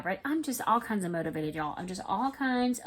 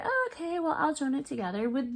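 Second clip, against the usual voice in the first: mock realization; 6 semitones higher, faster than usual. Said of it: "So then I was like".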